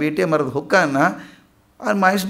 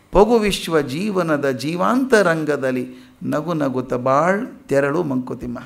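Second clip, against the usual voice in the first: slow, measured verse recital; unhurried recitation of a wise poem; 3 semitones lower, slower than usual. Acted. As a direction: recite the verse slowly, drawing out each phrase.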